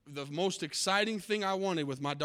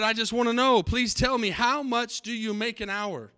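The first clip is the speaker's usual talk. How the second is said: a small son begging his dad, voice pushed higher; pleading little boy; 5 semitones higher, 5 dB louder than usual. Acted. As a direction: beg like a little boy who needs to know.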